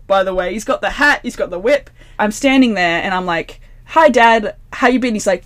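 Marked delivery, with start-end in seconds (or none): 3.8-5.2 high, loud and bright; bright cheerful greeting. Retold or imitated. Greeting dad in dream.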